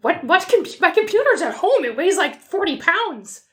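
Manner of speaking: put-on light Minnesota accent, folksy neighbor. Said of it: "I suddenly adopted a Minnesota accent there".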